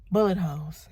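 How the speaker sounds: "Bullet holes" said clearly, every sound of "Bullet" distinct; careful correction. Shown as a demonstration. Fixing her slip on camera, saying "Bullet holes" carefully. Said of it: "Did I say buttholes?".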